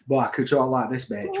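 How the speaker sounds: low, muttered Hull accent. Shown as a demonstration. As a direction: put on your local Hull accent. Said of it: "don't have a Hull accent".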